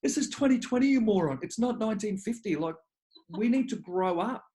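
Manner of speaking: high, incredulous mock telling-off; exasperated scolding. Dad tells other fathers to grow up, exasperated. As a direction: pitch it up and scold a backward mate.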